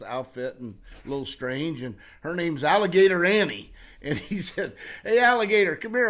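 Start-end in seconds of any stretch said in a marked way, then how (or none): 5.0-6.1 retold loud call, higher. Tom calls a carnival woman over, loud call. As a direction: hail her over from across the fair.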